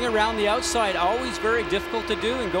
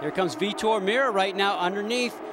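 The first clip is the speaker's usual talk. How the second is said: motorsport commentator. Acted. Live play-by-play of battle.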